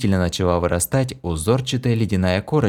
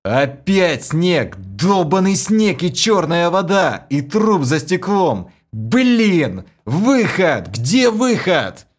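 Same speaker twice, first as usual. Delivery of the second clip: high, loud frantic yell; high loud panicked shouts searching for an exit; panicked furious shouting; 9 semitones higher, 3 dB louder, slower than usual. A narrator's reading. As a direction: rage at the endless snow. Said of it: "крутнулся по сторонам и крикнул".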